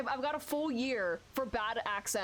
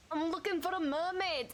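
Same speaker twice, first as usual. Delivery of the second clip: attempted Scottish accent; 3 semitones higher than usual. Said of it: "attempt a Scottish accent".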